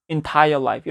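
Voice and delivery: "entire life" with the start of entire swallowed; "entire life" said with a reduced opening syllable; quick unstressed first syllable. Shown as a demonstration. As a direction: skim over the first syllable of "entire" into the stress. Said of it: "이렇게 발음을 하니까".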